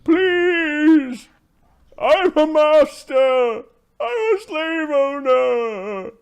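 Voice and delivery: very high, loud, drawn-out plea; desperate yelling. Acted. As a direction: wail slowly to a booing crowd, stretching every word. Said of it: "He's yelling towards the crowd".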